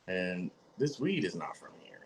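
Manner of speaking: hushed, breathy confidential remark; whispered aside. Retold or imitated. Whispering to the cohost about the fake local weed. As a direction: let it slip as a secret.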